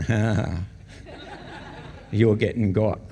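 teasing, laughing through the words; mocking laugh. Mate teases his crying friend, laughing. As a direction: laugh at your mate as he tears up.

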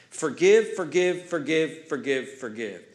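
a chant of forgive dying away; fading repetition. Shown as a demonstration. Repeating word, fading.

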